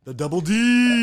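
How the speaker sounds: high, slow Southern drawl; a country singer's voice. Retold or imitated. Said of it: "she'd be like".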